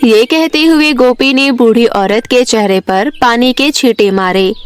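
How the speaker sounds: plain reading voice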